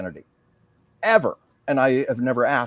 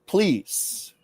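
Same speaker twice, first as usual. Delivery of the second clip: slow, solemn heartfelt speech; lightly voiced formal address, slow and centered; channeled public speech. Medium channeling a first lady's message, slow and solemn. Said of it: "she went into public mode".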